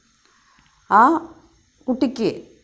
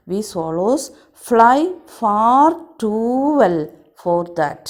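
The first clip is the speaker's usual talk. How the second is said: loud swallow telling; 4 dB louder than usual. Acted. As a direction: stress the rude boys loudly as the swallow. Swallow recounts stone throwing.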